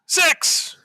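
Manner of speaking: high, triumphant exclamation; excited cheer. Real, not acted. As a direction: crow over a winning dice roll. Celebrating a rolled six.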